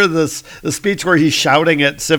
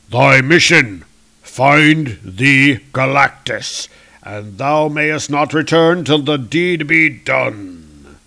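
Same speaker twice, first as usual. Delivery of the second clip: stern decree; 5 dB louder, slower than usual. Acted. Odin voiced decreeing mission.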